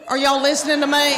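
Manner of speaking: mock scolding shout. Real, not acted. Speaker to a chattering audience, mock scolding shout. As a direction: bark it at the crowd, half-teasing.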